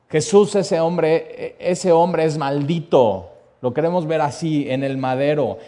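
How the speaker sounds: loud, slow mob cry; crowd shouting. Retold or imitated. Preacher voicing the mob condemning Jesus, slow loud shout. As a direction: call it out like the crowd condemning him. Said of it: "volvieron a dar voces".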